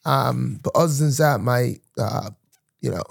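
sustained put-on London accent; playful amateur London accent; mock London accent. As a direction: keep chatting in a fake London accent.

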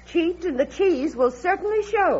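sententious proverb. Acted. Woman interrupting agents at the car, pointedly sententious. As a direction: deliver it as a knowing old saw.

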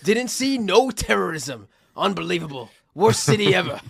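a hint of a racist Southern plantation owner complaining; plantation owner accent. Friend mocks a disappointed tourist, light Southern accent. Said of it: "whose accent is that?".

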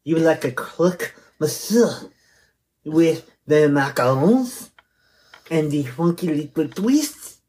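lightly put-on bad French accent; a hint of mock French, pinky up. Teasing his co-host in a mild mock French accent. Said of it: "your French accent is terrible".

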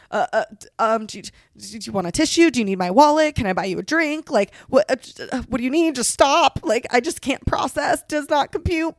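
hammed-up helpless fumbling for what to offer; flustered man. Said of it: "they never really know, like, what to do".

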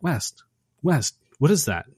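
a hint of calling through a door. Dan calling for West about the noise, lightly alarmed. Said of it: "he starts calling for West".

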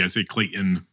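"Clayton" with a soft ending, no T, like "-in". Shown as a demonstration. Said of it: "I don't pronounce the T".

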